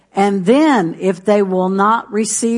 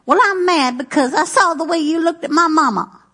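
higher, petty and aggrieved mock voice; petty grudge; 6 semitones higher, faster than usual. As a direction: play the petty sulker, lightly. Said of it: "Petty, little".

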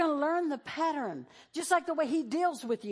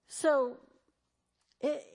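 ordinary delivery

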